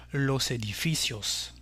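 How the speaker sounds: edificios stressed on FI; Spanish edificios accented on "fi"; stress unchanged in plural. Shown as a demonstration. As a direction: say los e-di-FI-cios, weight on "fi". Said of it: "ne change pas la place de l'accent".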